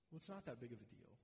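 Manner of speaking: a soft, quick, coaxing whisper of temptation; tempter's voice. Retold or imitated. Preacher voicing the tempter to the congregation, soft and quick. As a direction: lure them gently, like it's nothing. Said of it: "it sort of sounds like this".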